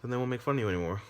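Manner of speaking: put-on sweet-talking the girl like a sly predator; creepy clown.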